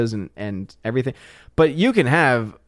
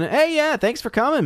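high squeaky voice; 13 semitones higher than usual. Acted. Squeaky greeting.

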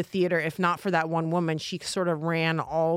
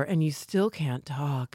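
posh mock; 3 semitones lower, slower than usual. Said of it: "Oh, I'm so proper".

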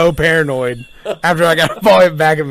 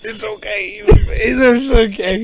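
mock breathless; 7 semitones higher, much slower than usual. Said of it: "He's out of breath".

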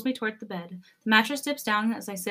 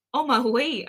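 amused interruption, a little higher and louder; laughing; 4 semitones higher, 5 dB louder, slower than usual. A narrator's reading. Son stopping his excited Oma, lightly laughing. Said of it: "I laugh".

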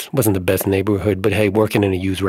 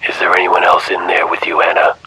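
louder questioning man; 3 semitones lower, 5 dB louder than usual. Acted.

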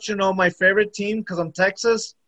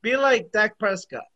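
imitating Wikipedia. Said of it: "Wikipedia says".

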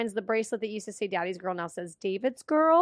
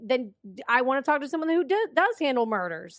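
ranting Steve. Retold or imitated. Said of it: "That's what Steve said".

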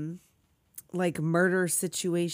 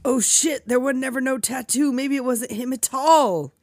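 raised, louder mock gasp of shock; 3 semitones higher, 4 dB louder than usual. Friend reacting to the movie twist, mock shocked gasp. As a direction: gasp like the twist just hit you.

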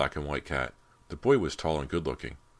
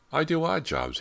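handyman voice, higher; 13 semitones higher, 4 dB louder than usual. A narrator's reading. Handyman introduces himself.

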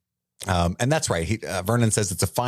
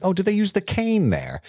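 mock Aunt Marge; 11 semitones higher than usual. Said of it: "And she's like".

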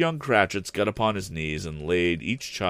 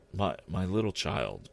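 cried; 4 dB quieter than usual. Acted. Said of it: "cried Bob".

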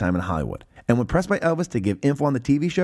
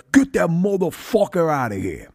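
higher-pitched mock heckler yell; retold yell; 4 semitones higher than usual. Heckler wants the man thrown out, imitated as a mock yell. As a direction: imitate a heckler calling out, without full volume. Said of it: "the heckler from earlier yells".

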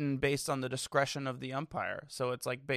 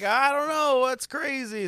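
high, loud, drawn-out mock dubbing; John Boy impression; 10 semitones higher, 8 dB louder, slower than usual. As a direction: ham up the bewildered player. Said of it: "John Boy's just voice when he does those".

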